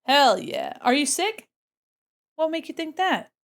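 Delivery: ordinary talk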